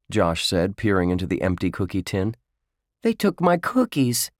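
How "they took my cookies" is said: put-on high-pitched boyish indignation; outraged complaint. A narrator's reading. Josh peers into the empty cookie tin, outraged complaint. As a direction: complain as if a treasure was stolen.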